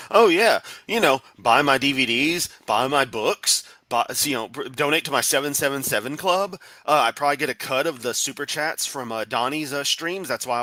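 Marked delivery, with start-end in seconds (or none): 0.1-8.1 high mocking sing-song sales pitch. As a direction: parrot him with a sneer.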